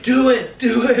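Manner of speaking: high, laughing do it; urging. Retold or imitated. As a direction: egg him on, high and giddy. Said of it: "but she's like".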